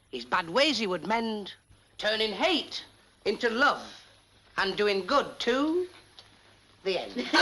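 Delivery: slow, solemn reciting of a melodramatic poem; dramatic recitation. Acted. George reciting his poem to the pals, solemnly dramatic. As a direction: declaim it like a parlour performer.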